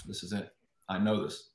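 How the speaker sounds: soft inner-voice resolve; quiet self-talk. Retold or imitated. Swimmer to himself behind the blocks, quiet self-talk.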